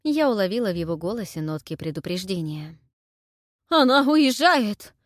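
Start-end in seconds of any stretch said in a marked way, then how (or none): 3.7-4.9 high, loud, slow panicked wail; frightened babble. A narrator's reading. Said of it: "лепетал испуганно Анхель".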